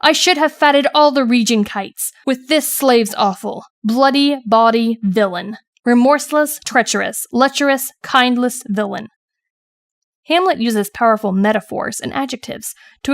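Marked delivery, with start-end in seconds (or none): 0.0-9.1 understated passionate outcry, deliberate emphasis; measured recitation with mild fervor; mildly passionate. Acted. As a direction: read Hamlet's curse with a touch of passion. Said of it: "He cries out passionately".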